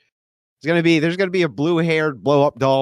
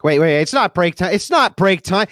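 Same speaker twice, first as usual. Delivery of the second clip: mock stern; 6 semitones higher, 4 dB louder than usual. Teasing the crowd, loud.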